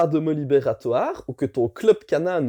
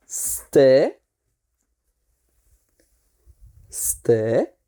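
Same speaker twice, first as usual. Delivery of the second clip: low firm stay command; low, drawn-out stay to the dog; talking to a dog; 7 semitones lower than usual. Shown as a demonstration.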